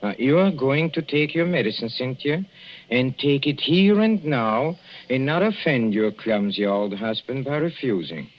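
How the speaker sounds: smooth, insistent husband coaxing his wife; husband's coaxing. Acted. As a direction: press the medicine on her with silky charm.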